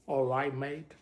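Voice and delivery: mock Australian "All right, mate"; Australian accent. Shown as a demonstration. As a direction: imitate an Australian with rounded vowels. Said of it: "Australian is, you guys do very rounded".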